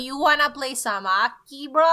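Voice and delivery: mock Canadian hockey bro accent; hammed-up Canadian accent, teasing. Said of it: "she's putting on the voice".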